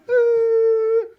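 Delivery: high startled ooh. Retold or imitated. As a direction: yelp as the car stops. Car stops sharply.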